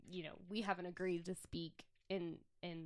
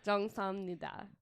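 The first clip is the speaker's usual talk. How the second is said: slow, evenly spaced "Jung Sung Nida"; slower demonstration. Shown as a demonstration.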